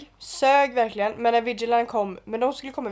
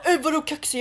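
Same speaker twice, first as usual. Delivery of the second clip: imitated sleazy guy; 5 semitones higher than usual. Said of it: "han var så här en riktig så här slisk".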